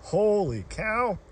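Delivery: slow, high astonished exclamation; amazed. Real, not acted. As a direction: stretch it out in disbelief. First sight of giant trout.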